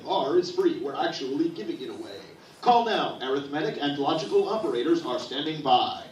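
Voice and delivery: TV pitchman voice; infomercial. Acted. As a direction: sell it like a late-night ad. Mock sales pitch for free R.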